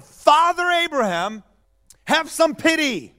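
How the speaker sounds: shouted plea. Retold or imitated. Rich man in torment calling to Father Abraham, pleading. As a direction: call up from torment, begging for pity. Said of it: "The rich man shouted".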